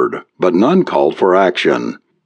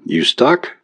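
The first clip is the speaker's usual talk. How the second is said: solicitous; 5 semitones higher than usual. A narrator's reading. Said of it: "he asked solicitously".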